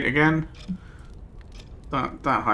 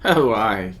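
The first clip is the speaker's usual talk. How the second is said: put-on louder, higher prophetic old woman; ominous old seer; 5 semitones higher, 6 dB louder than usual. Old Nika foretelling the stranger's death in the cave, loud and ominous. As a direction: pronounce doom on the stranger.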